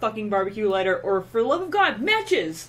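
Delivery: angry lecture. Retold or imitated. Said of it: "I was so mad".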